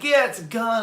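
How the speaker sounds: imitating the gunman; robber's reply. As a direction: play the robber, matter of fact. Robber confirming in retold holdup.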